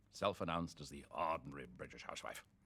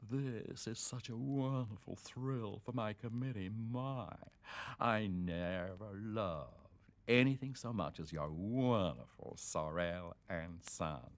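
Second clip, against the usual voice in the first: higher, gushing society lady voice; gushing wife; 4 semitones higher, slower than usual. Retold or imitated. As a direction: coo it like an adoring fan. Gushing businessman's wife quoted.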